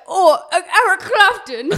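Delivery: high, loud swooning mock voice; hammed-up lovestruck girl greeting Eric Clapton; mock breathy Patty. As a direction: gush his name like a giddy groupie. Mocking Patty greeting husband.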